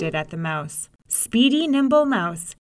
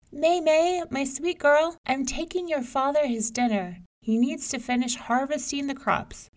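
put-on high, bright mother calling to her child; 5 semitones higher than usual. Mother calls May May before leaving, high and loving. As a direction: sing out to your daughter. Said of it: "A mother called to her daughter".

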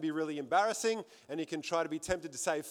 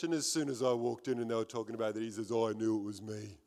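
tearful, hushed; 7 semitones lower, 4 dB quieter, faster than usual. Retold or imitated. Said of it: "through the tears".

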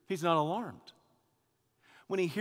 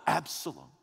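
grieving cry; 4 dB louder than usual. Acted. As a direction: cry the name, then let it fall. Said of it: "he just cries out, not once but twice".

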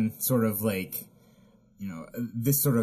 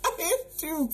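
laughing. Real, not acted. Laughing at the sexy cartoon voice.

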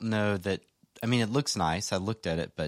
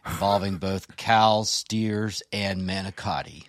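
put-on Texas ranger accent; slower than usual. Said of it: "you're influencing my, fr-, my accent".

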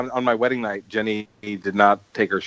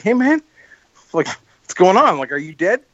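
high-pitched, half-joking "hey man, are you dead?"; pitched way up, then easing down as you check on him; mock alarmed wake-up call; 6 semitones higher than usual. Retelling waking a staring guy at a party, high mock-worried call.

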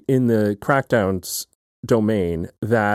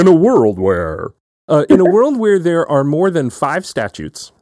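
movie trailer voice; 4 semitones higher, 5 dB louder than usual. Pretend. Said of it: "It sounds like a movie trailer".

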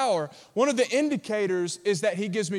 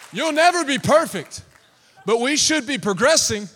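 emphatic; 3 semitones higher, 4 dB louder than usual. Real, not acted. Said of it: "That's a good word".

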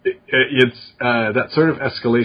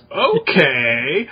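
up to something; 2 semitones higher than usual. Retold or imitated. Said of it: "raised eyebrows, like, "I'm up to something".

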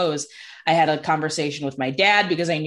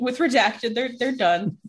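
higher, halting upset voice; retold tearfulness; 5 semitones higher than usual. Telling mom who the breakup is with, retold tearful voice. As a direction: mildly imitate someone tearfully giving bad news. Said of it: "that I'm crying".

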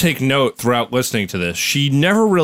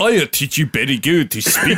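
mock Japanese accent. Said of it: "Oh, Japanese".

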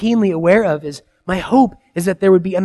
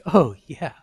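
put-on child's eager yes.

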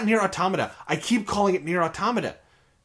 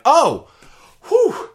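shocked; 12 semitones higher, 9 dB louder than usual. Retold or imitated. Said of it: "and went".

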